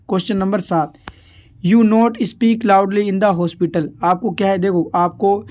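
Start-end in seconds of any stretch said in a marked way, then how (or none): 1.7-3.9 slow dictation. Shown as a demonstration. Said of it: "slow read of question".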